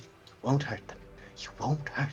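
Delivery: barely audible, mumbled stage whisper. Explaining mumbling to listeners while demonstrating it, stage whisper. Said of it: "like stage whispering right now".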